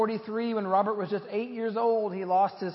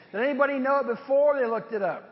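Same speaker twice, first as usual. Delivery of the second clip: laughing; 6 semitones higher, 7 dB louder, faster than usual. Real, not acted. Teasing the congregation, laughing.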